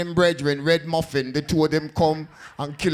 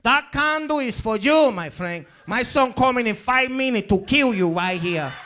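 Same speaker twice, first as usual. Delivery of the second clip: put-on old Latina woman; 5 semitones higher than usual. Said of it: "She said".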